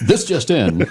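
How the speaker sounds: mock news anchor opener. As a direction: announce it like breaking news. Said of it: "You sound like a news reporter".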